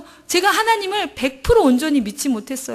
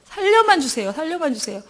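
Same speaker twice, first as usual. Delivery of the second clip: high, pleading cry that fades; beg, then sink down; desperate plea trailing off; 4 semitones higher than usual. Retold or imitated. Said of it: "그렇게 막 부르짖고".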